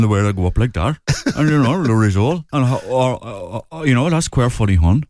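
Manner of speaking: peculiar Wexford accent. Shown as a demonstration. Showing the host how Wexford talks, peculiar lilting accent. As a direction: Wexford lilt that goes up at the ends. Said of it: "terribly peculiar accent, uh, uh, uh, in, in Wexford".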